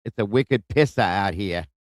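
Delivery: slow, lightly imitated Boston accent, r dropped in car; a hint of Boston: 'Park the car' said slow, pahk the cah; mock Boston accent. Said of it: "ask them to say".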